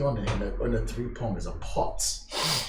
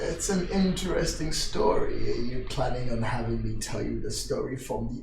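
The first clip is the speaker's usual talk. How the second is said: put-on measured, slightly lowered old man's voice; mysterious old host; 2 semitones lower, 3 dB louder than usual. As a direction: invite them in as a cryptic old host.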